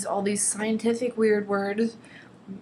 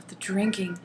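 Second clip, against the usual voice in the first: hushed, voiceless repeat of "drinking"; mock dramatic whisper. Shown as a demonstration. Reading the book's line aloud, she whispers it in mock dread. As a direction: breathe "the drinking" out in a hammed-up whisper.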